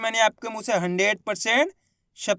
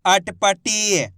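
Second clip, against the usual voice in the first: अटपटी stretched very slowly with a falling end; slow drawn-out blend; much slower than usual. Shown as a demonstration. Teacher slowly blending अटपटी so students can follow. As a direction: draw अटपटी out syllable by syllable, settling down. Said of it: "एक ही अक्षर का उच्चारण करके".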